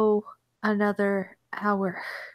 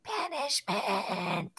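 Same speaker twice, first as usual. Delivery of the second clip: tag-on mock curse; much slower than usual.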